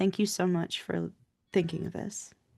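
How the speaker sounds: muttered under breath. Speaking as Poppy quietly to Kate in the car: under her breath. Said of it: "just under her breath".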